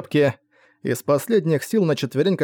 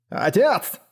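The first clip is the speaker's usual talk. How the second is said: high, moderately projected cry; calling over noise; 7 semitones higher than usual. A narrator's reading. Son calls to his father over the din, shouting. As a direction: call out urgently, pitch raised. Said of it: "крикнул, перекрикивая шум".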